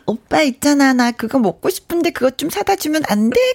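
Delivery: cutesy aegyo begging. Shown as a demonstration. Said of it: "그러면 그게 해결이 돼".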